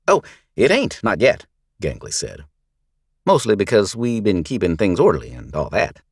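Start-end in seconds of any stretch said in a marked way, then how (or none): 0.1-1.5 higher, louder mock-innocent voice; sly thug. Gang leader explaining himself to the sheriff, sly mock innocence. 3.3-6.0 sly thug. Acted. Gang leader feigns innocence.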